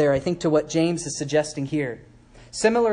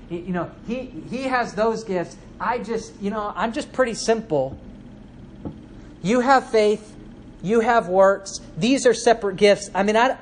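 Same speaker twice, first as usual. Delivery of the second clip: lightly voiced reluctant churchgoer, higher; mock lay person; 3 semitones higher than usual. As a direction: shrug it off like someone dodging commitment. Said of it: "what a lot of lay people do today".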